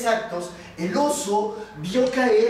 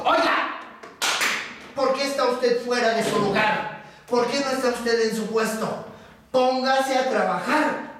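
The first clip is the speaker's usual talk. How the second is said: raised, ill-tempered scolding; cross foreman; 3 semitones higher than usual. Acted. Foreman telling the bear to get working, cross. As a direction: scold a worker back to his post. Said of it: "cara de enojado y de malhumorado".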